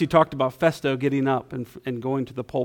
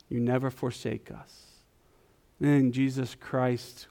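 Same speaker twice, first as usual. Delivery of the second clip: prayer. Acted. Pastor prays before sermon.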